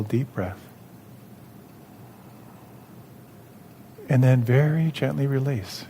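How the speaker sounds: calm, measured instruction with long pauses; guided meditation. Real, not acted. Leads mindful movement practice.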